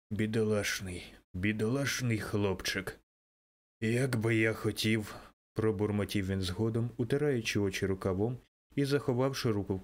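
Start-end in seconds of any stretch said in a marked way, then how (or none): 0.1-5.1 tearful. A narrator's reading. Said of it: "знову заплакавши".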